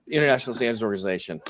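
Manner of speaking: quick, token French accent. Shown as a demonstration. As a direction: rattle it off with a rough French accent. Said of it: "say it with a French accent".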